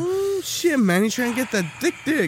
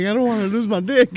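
laughing panic; 3 semitones higher than usual. Retold or imitated.

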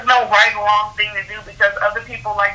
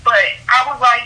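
ordinary talk, nothing marked

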